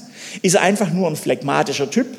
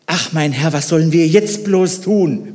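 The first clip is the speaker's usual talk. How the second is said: frightened servant; 4 dB louder than usual. Acted. Servant asks his master in a mild fearful plea. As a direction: voice the servant's alarm. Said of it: "Merkt ihr die Angst?".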